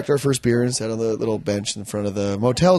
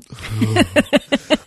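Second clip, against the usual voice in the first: blowfish impression; 3 semitones higher than usual. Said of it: "that was my impression of a blowfish".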